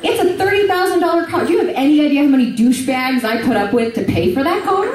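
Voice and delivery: high, worked-up retold fury; hammed-up furious car owner; mock livid rant. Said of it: "I'm livid".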